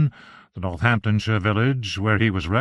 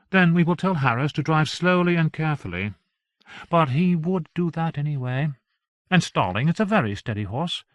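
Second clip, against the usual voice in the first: a higher wife's voice, coaxing; lightly voiced wife, persuading; 4 semitones higher than usual. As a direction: talk him round, a touch higher. Arabella argues for the visit.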